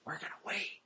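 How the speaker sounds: sudden hushed conspiratorial voice; plotting. Acted. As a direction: drop right down to a schemer's murmur. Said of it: "they're plotting".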